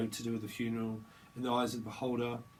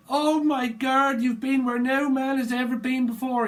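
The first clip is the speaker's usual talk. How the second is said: amazed shout; 11 semitones higher, 9 dB louder than usual. Retold or imitated. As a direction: stretch it out in loud astonishment. Amazed slow exclamation.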